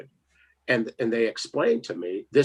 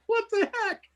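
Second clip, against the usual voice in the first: high laughing voice; laughing through it; giggling while talking. Real, not acted. Laughing telling story.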